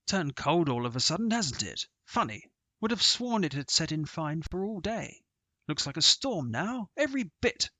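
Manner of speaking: put-on chatty old sportsman on the links; hint of a hearty squire; hearty golfer. Sir Harry remarks on weather.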